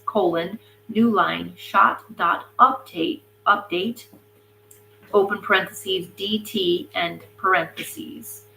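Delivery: reading code aloud symbol by symbol; dictating code. Shown as a demonstration. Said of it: "here's the programming".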